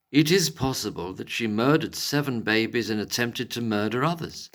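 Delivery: posh, emphatic quote-reading voice. Acted. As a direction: read it out in a posh English accent. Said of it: "I'll do it in a posh voice".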